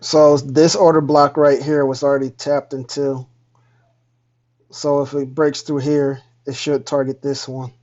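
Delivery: glitchy robotic mic audio. Real, not acted. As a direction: voice garbled like a robot. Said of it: "You sound like a robot".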